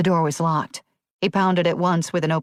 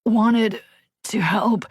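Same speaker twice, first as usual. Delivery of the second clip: gasping; 5 semitones higher, much slower than usual. A narrator's reading. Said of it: "Bradley gasped".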